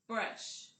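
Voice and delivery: TOOTH very soft, then BRUSH out loud. Shown as a demonstration. Teacher splitting a compound word, TOOTH softly, BRUSH loudly. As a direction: whisper TOOTH, pause, punch out BRUSH. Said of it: "very softly say".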